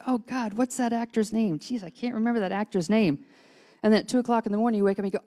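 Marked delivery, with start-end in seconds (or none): 0.1-3.2 higher-pitched, lightly exasperated quote; a touch of frustrated forgetfulness; mock exasperation. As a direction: act out straining to recall something. Voices people failing to recall name.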